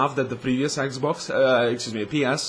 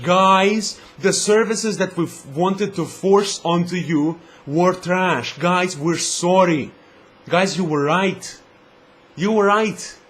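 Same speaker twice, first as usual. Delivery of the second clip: mock apology. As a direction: play a company owning up, slowly. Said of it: "Just admit for once".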